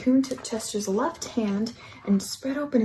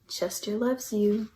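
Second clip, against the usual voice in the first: slow and tender. Acted. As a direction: let it linger, gently and slowly. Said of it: "it sang".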